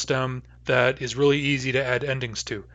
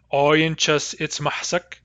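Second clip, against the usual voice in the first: slow demo pronunciation; 2 semitones higher, slower than usual. Shown as a demonstration. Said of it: "in which case we'd have".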